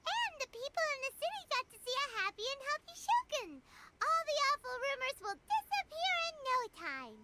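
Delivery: excited. Acted. Paimon cheering about the Shogun's city trip, excited. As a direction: cheer it out like good news.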